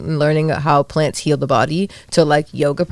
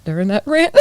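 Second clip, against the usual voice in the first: laughing; 4 dB louder than usual. Real, not acted. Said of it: "I lost my train of thought".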